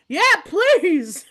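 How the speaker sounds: out of breath. Pretend. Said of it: "I'm kind of out of breath".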